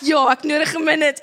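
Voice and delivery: stressed mom, admitting it loudly; exasperated. Retold or imitated. Mom to son, frazzled and exasperated. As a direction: blurt it out frazzled. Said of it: "He could hear in my tone of voice".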